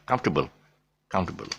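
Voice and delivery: "comfortable" as KUMF-tuh-bul; shortened comfortable. Shown as a demonstration. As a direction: swallow the middle of "comfortable": comf-t'ble. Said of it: "And you get comfortable".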